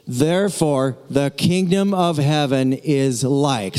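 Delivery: slow, measured reading of "kingdom"; slow read-through. Shown as a demonstration. Pastor reading the line slowly with the congregation. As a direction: lead the church through it slowly. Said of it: "Read this first line with me".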